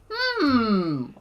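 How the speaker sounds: loud mock Russian dictator voice in a cheesy Russian accent; Putin, bad Russian accent. Vlogger mocking a Russian leader plotting nukes, in a hammed-up Russian accent. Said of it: "I'm sorry for my bad Russian accent".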